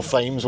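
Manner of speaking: Thames said as "Fames", starting with f; another wrong Thames pronunciation. Shown as a demonstration. Mocking the AI's old attempt, Thames as "Fames". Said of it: "whatever you used to say".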